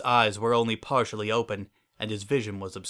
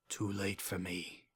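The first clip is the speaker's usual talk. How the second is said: slow, near-breathless fading voice; very faint; 12 dB quieter, slower than usual. Acted. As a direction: let the life drain from the words. Last words, very faint.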